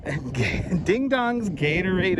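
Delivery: slightly winded while walking fast; breathless from brisk walking; out of breath. Real, not acted. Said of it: "if I sound a little out of breath".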